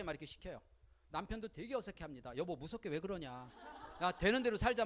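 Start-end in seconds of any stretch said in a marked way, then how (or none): 2.4-4.8 웃음 섞어 말하는 남편; 웃으면서 되는 대로 살자고 하듯; husband laughing it off. Retold or imitated. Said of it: "막 그래요". (어색해하며 웃는 남편 흉내)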